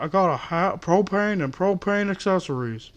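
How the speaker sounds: light Texan propane-salesman voice; lightly riff on the cartoon dad; Hank Hill. Cashier jokes on his own voice, light Hank Hill. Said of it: "did I sound like fucking Hank Hill".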